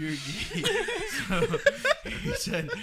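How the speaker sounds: laughing through the words. Retold or imitated. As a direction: quote it while cracking up. Retold quote, laughing while quoting.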